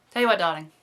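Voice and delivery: loud English-accented "darling" catchphrase; English-accented Hollywood producer. Shown as a demonstration. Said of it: "sounds a little bit like a Hollywood producer".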